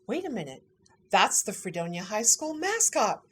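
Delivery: imitated Southern Utah accent, building to high excitement; Southern Utah accent, growing gushy. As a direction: play a delighted Southern Utah clerk, accent rising loud at the end. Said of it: "got this thick Southern Utah accent".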